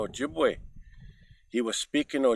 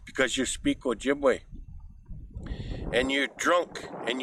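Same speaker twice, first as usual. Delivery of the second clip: scolding animals; 2 semitones higher than usual. Acted. Animals scold the rabbit together.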